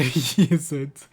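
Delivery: breaking into a laugh; tickled by the story, laughing; real amusement. Real, not acted. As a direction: crack up at the end of the sentence. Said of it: "That's so funny to me".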